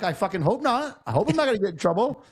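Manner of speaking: high whiny son voice. Retold or imitated. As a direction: whine it like a cornered teen. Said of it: "I'm like".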